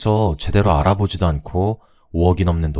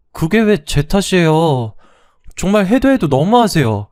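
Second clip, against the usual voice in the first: indignant protest; 8 semitones higher, 4 dB louder than usual. Acted. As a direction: fight back against the unfair blame. Daughter-in-law argues back.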